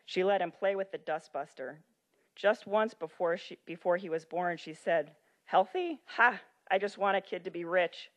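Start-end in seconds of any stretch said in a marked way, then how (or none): 5.4-8.1 a mock-scornful joke to friends, pitched up; joking scoff. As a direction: toss it off as a cheeky joke, laughing at the idea. A joke, for God's sake.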